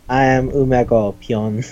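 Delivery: slow, straight-faced delivery; deadpan introduction. Retold or imitated. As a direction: announce it with total seriousness. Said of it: "With the straightest face".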